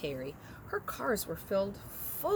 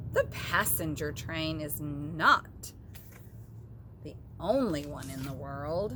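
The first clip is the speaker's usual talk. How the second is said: called out; 3 semitones lower than usual. Acted. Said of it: "The little clown called out".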